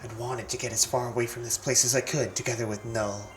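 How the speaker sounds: put-on a brooding teen whose voice breaks; moody teen boy voice. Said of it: "have my voice crack while reading dialogue than with Gladeon".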